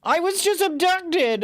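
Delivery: screaming at the cabbie over money. Acted. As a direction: scream it in disbelief. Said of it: "I scream".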